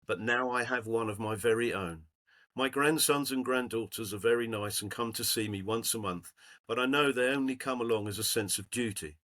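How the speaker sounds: lightly voiced old lady's letter, read aloud; reading an old woman's thank-you note to the group.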